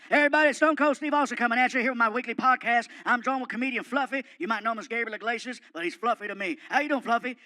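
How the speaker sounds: loud gruff host opening; Stone Cold podcast intro. Retold or imitated. Wrestler opens his podcast to listeners, loud gruff host voice. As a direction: boom the show intro like a wrestler. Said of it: "he just starts".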